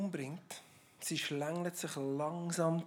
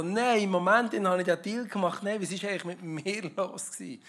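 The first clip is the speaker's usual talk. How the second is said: mock dismay; 2 semitones higher, 6 dB louder than usual. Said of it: "denkt so".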